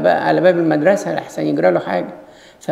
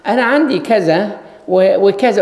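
mock boasting; 4 semitones higher, 3 dB louder than usual. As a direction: drag out the boast to wound others. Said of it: "ما تخلينيش أقول".

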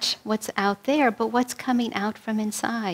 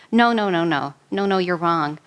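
argumentative; 3 semitones lower than usual. Retold or imitated. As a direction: insist like a stubborn brother. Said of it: "in an argumentative voice".

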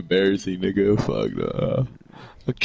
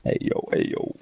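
Luis impression; 4 dB quieter than usual. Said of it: "You sound like Luis".

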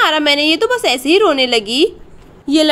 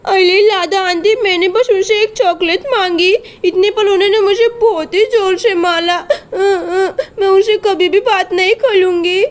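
put-on tearful child; 3 semitones higher than usual. Crying child complains to auntie.

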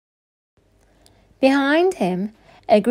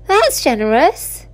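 higher, pleased exclamation; exclaiming; 5 semitones higher, 4 dB louder than usual. A narrator's reading. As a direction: exclaim it in grateful surprise. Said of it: "exclaimed Oliver".

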